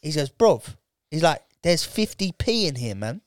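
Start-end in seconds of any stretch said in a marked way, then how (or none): 0.3-0.8 higher London Jamaican 'bruv'; imitated Jamaican-London geezer; put-on street accent of Jamaican English. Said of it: "that really cool accent". 1.6-3.2 unimpressed Jamaican-London geezer; put-on Jamaican English; Jamaican English accent. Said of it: "that really cool accent".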